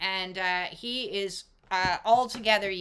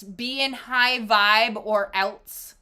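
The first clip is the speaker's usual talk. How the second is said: mocking quote; 4 dB louder, slower than usual. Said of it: "is fear propaganda".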